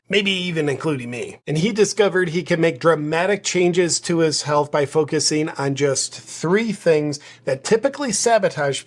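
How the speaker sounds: upbeat, pushy sponsor pitch; sponsored ad read. Acted. Vlogger pitching the sponsor to viewers, upbeat ad read. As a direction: sell it like a product spot.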